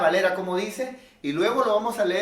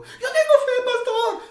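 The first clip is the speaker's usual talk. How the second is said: much higher, louder whining plea; whiny plea; 6 dB louder than usual. Retold or imitated. Anxious member whining to the pastor, much higher. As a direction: whine like an anxious church member.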